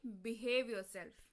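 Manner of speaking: very slow, each word spelled out; slow careful demo. Shown as a demonstration. Teacher to students, slowly modelling the phrase. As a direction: drag out Behave yourself for learners. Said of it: "अब आप English में क्या बोलेंगे?".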